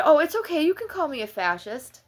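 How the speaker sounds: mock Trump voice. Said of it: "Trump said".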